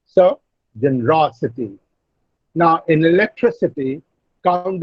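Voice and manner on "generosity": generosity, with ro stressed and the end falling. Shown as a demonstration. Teacher answering a student's question, stressing ro. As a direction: put the weight on ro in generosity. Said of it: "Ro is the third syllable".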